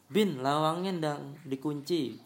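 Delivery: slow, drawn-out mock call, no real shouting; imitated mother's call. Mother calling her child to lock the door, mildly imitated call. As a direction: imitate a mum calling out, stretched but mild. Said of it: "tiba-tiba ibu teriak".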